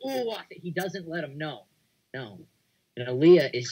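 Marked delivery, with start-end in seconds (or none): 0.1-0.4 mock roar. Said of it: "he doesn't do the whole".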